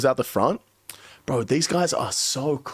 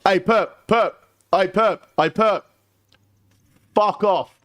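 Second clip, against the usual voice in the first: raised, higher heckling dismissal; telling him off; 6 semitones higher than usual. Retold or imitated. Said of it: "Mod North goes".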